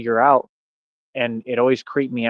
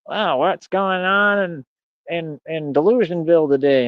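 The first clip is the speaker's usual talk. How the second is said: mocking quote; 4 semitones higher than usual. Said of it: "You're worried about".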